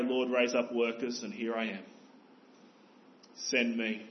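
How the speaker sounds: mean every word, quietly; earnest prayer that ends in send me; sincere prayer. Retold or imitated. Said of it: "No, we must pray".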